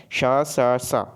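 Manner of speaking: श, स, स each drawn out as its own syllable; sibilants sounded out. Shown as a demonstration. Teacher contrasting the three sibilants for students, sounded out. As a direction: recite श, स, स slowly and separately. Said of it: "तो आप एक बार उच्चारण करके".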